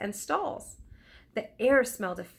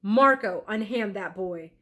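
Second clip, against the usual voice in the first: loud commanding call on the name; booming command; 7 dB louder than usual. Acted. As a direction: boom the order across the square. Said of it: "a man's voice boomed".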